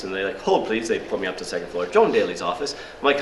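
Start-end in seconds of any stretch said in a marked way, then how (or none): 0.4-0.9 brisk receptionist with a mock English accent; bad English accent. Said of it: "do a bad English accent". 1.9-2.7 receptionist's mock English accent, questioning lilt; bad English accent. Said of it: "do a bad English accent".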